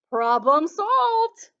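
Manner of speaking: very slow, drawn-out tortoise voice. Acted. Tortoise handing back the apple, slow and loud. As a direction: stretch every word like a tortoise.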